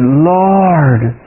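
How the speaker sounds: drawn-out retold plea to God; reenacted plea, slow and rising; crying out. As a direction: retell a cry for help, words stretched. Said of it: "I cried out to the Lord".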